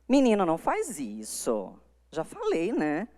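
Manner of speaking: soft, easy, almost chatting; a gentle half-serious telling-off; lighter scolding. Shown as a demonstration. Parent mildly scolding a child, a much lighter tone. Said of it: "Esse tom é bem mais leve".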